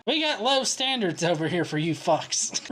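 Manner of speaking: ordinary talk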